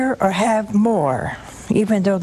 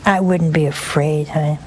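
reassuring; 4 semitones lower than usual. Real, not acted. Comforting a fearful caller.

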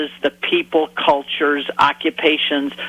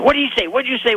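eager question; 9 semitones higher, much faster than usual. Retold or imitated. Asking fishermen eagerly.

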